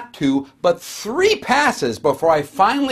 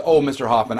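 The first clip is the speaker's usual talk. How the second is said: glad and caring; 5 semitones lower than usual. Retold or imitated. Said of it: "Leslie says".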